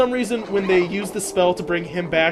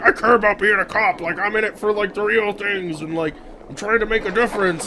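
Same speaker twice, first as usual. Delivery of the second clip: lightly voiced eager orc, a little raised; earnest orc cop; 2 semitones higher than usual. Retelling the orc's speech about being a cop, lightly voiced earnest role. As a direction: lightly act out a cop who believes in the job. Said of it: "the orc's like".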